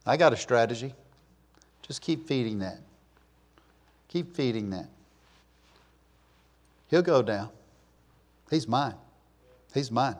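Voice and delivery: soft, low, scheming devil; sinister whisper. Acted. Preacher voicing Satan quietly claiming his victim, sinister hush. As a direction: murmur it like a plotting tempter.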